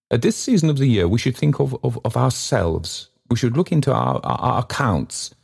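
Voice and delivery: high, grand oration that stumbles and restarts; self-important baronet groping for his phrase; floundering pompous speaker. A narrator's reading. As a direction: hold forth weightily, floundering over words. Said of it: "floundering now and then".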